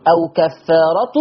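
كفارة ending in plain -tu; no n after the ta of كفارة; no tanween. Shown as a demonstration. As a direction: say أو كفارة as "aw kaffaaratu". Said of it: "مضمومة بس من غير تنوين".

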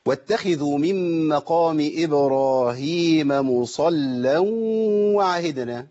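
slow chanted tajweed recitation; measured reverent reading; Quran recitation. Shown as a demonstration. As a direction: recite slowly, drawing out the long vowels. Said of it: "هي أصلًا إيه".

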